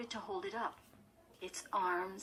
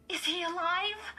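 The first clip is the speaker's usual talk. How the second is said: high, louder anxious question; breathless urgency; 12 semitones higher, 7 dB louder than usual. A narrator's reading. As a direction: press for an answer, breathlessly. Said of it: "Chris repeated breathlessly".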